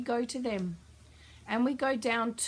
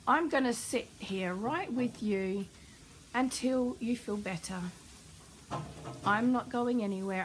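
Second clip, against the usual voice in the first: reassuring; 2 semitones lower than usual. Shown as a demonstration. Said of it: "going to reassure that child".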